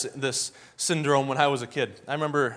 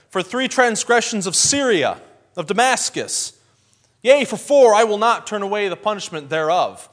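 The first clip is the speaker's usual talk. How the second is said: fiery preaching; 5 semitones higher, 6 dB louder than usual. Retold or imitated. Amos preaching against Damascus, loud and fiery. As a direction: thunder it out like a prophet to the crowd.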